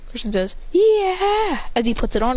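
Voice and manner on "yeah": high, falling yeah of glee; delighted cheer. Acted. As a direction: celebrate a gift. Christian voiced delighted with gift.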